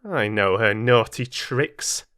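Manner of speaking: disgusted. Acted. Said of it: "in some disgust".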